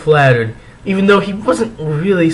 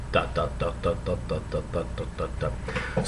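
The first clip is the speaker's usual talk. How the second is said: whispered; 9 semitones lower, 15 dB quieter than usual. Acted. Reading ellipsis dramatically.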